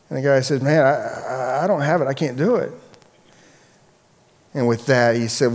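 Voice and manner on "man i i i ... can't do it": stammering, halting excuse; lightly acted helpless protest; helpless debtor. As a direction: stumble over the words as a cornered debtor. Acted debtor unable to pay.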